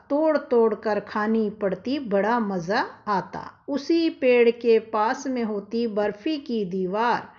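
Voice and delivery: put-on reciting a children's poem, slow and sing-song; poem recitation. Teacher recites the poem to the children, sing-song. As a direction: read each line like a rhyme for the class.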